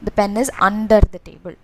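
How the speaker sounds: "under" picked out with emphasis; slow example sentence, weight on "under"; stress on "under". Shown as a demonstration. Teacher highlighting the contrasting preposition.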